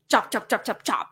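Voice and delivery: chop, chop, chop in short separate beats; each "chop" one equal, detached syllable; choppy syllables. Shown as a demonstration. Streamer showing how Vietnamese sounds, choppy one-syllable beats. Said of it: "our language is very, like".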